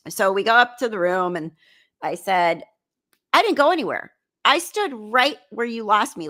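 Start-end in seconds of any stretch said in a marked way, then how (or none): 3.3-6.3 higher, emphatic retold comeback; indignant self-defence, pitched up; defensive protest. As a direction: replay yourself standing your ground. Retold argument in the room.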